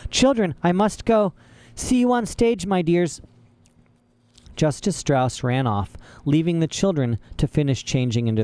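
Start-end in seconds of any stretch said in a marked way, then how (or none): 0.1-3.2 much higher, gushing farewell; the judge gushing as she hurries off; excited. A narrator's reading. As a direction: sing it out as she rushes off. Judge leaving, thrilled.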